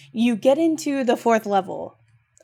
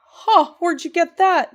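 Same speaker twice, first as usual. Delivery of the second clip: mock parent question; 8 semitones higher, 4 dB louder than usual. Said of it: "they're like".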